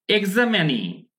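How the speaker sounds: এক্সামেনি with a long falling "nee" ending; pronunciation demo. Shown as a demonstration. Teacher introducing the word for an exam candidate, pronunciation demo. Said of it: "এবার খেয়াল করুন".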